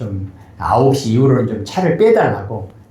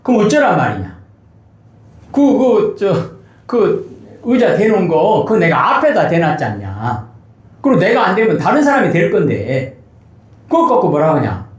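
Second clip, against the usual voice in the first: higher-pitched, mildly heated retelling of a complaint; mock indignant caller; imitating angry caller; 5 semitones higher than usual. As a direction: retort like an annoyed neighbour, half-earnest. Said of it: "오히려 막 화를 내는 거예요".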